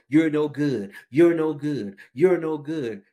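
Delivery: a mild mock taunt, said over and over; devil's taunt. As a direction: repeat it like a nagging voice in the head. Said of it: "the same old loop".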